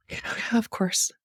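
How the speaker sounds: slow, breathy whispered aside; resigned whisper. Real, not acted. Muttering to herself over the lost money, a resigned whisper. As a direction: let it fall away, defeated.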